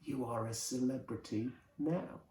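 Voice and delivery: soft conspiratorial whisper. A narrator's reading. Mister Sellers to his guest after fooling everyone, whispering. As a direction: whisper it as a private aside. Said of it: "he whispers to me".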